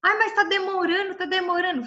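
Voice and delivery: mock complaining young woman; mock impatient girl. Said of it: "falo com as meninas que querem casar".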